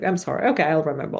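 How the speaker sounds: flat, rote, careless apology; no emotion. Shown as a demonstration. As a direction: toss it off like a vocab item. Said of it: "If you just say it with no emotion".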